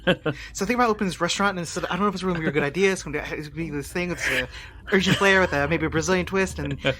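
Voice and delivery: rambling, excitable pitch to a companion; hyped-up fast talk. Acted. Telling Cabal about all our plans for the future, hyped-up fast talk. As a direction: run ideas together as if all coked up. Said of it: "talking fast and moving fast".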